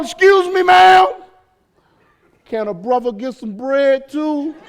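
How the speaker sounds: a prophet hollering after the widow for bread; yelling out. Retold or imitated. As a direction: shout after her, cheeky. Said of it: "he yells out".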